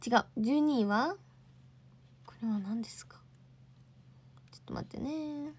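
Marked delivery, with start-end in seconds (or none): 2.2-5.0 breathy unvoiced whisper; 小声で独り言のようにささやく. Real, not acted. Puzzled over an image. (ささやき声で)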